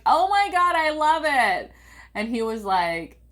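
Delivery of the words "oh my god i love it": high, loud gushing delight; thrilled squeal. Retold or imitated. Daughter to her dad over the pink toilet, high thrilled squeal. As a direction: squeal like a kid who loves a gift. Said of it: "And I was like".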